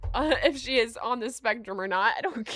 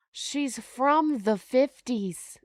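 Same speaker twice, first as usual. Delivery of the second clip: slow, drawn-out mock fifties voice; lightly put-on prim voice; mock old-timey; 3 semitones higher, 4 dB louder, much slower than usual. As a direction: say it like a stuffy old-fashioned lady. Mocking the old-fashioned claim.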